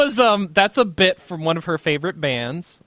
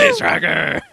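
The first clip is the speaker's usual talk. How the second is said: much higher hyped call; high excited voice. Acted. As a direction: sing out the title up high. Repeating segment title in voice.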